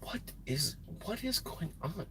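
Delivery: near-whisper, barely voiced; hushed puzzlement. Real, not acted. Trucker distracted by the parking lot, puzzled whisper.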